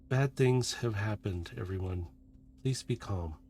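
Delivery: lightly voiced, hushed calming leader; Carbine. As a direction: break bad news softly, trailing into a quiet plea. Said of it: "You hear Carbine talking".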